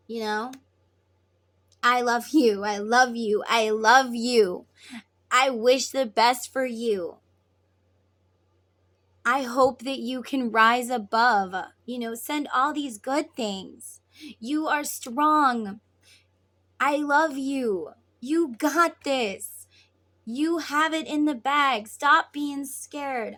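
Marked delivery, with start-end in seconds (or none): 1.8-11.5 firm, louder repeated declaration; emphatic loving affirmation. Acted. Sending good things to a twin, emphatic and loving. 14.4-23.3 slow, drawn-out pep talk; emphatic encouragement. Acted. Encouraging a twin climbing the mountain, emphatic.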